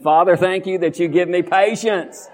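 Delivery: fuller, committed confession; like we mean it. Real, not acted. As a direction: say it like you truly mean it. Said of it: "Let's say it like we mean it".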